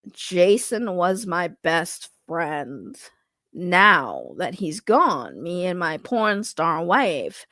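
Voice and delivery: very slow, measured and composed, slightly congested; reading as Aaron. Acted. Reading a chat message aloud in Aaron's slow voice. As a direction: read it like a laid-back man keeping his cool. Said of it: "let me read this as Aaron".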